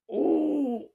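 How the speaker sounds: high squeaky oh; a sudden yelp of mock pain; lightly voiced hurting groan. Coach's pained reaction imitated.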